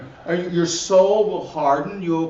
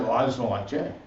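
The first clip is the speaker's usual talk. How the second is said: stubborn excuse; 8 semitones lower, 5 dB quieter, faster than usual. Retold or imitated. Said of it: "the belief and the lie that".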